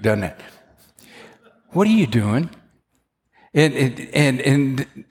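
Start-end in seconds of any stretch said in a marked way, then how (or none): 1.7-2.5 gentle question. Shown as a demonstration. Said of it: "That almost sounds like the other kind of rebuke".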